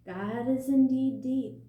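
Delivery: lightly voiced Old Turtle, high and loud; wise old turtle. A narrator's reading. Old Turtle calming the creatures, high and loud. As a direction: speak with grand ancient authority.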